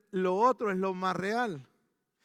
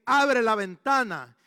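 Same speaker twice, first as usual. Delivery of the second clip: slow prophet's command; 7 dB louder, slower than usual. Retold or imitated.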